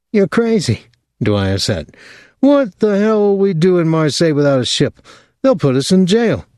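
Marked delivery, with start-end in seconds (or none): 0.1-0.9 alarmed Dwyer. A narrator's reading. Dwyer protests Thomas's plan. 2.4-6.4 alarmed Dwyer. A narrator's reading. Dwyer alarmed about jail.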